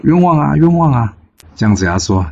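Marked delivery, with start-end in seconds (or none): 0.0-1.2 storyteller's high-pitched wail of injustice; loud cry of protest. A narrator's reading. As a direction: cry out that you are wronged. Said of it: "这时候曹雷大喊说".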